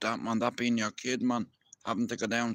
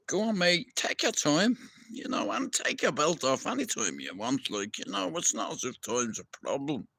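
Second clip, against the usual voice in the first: mocking, much higher "take your time"; sarcastic; 4 semitones higher than usual. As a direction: drip with sarcasm at the bystander. Sarcasm at the idle bystander.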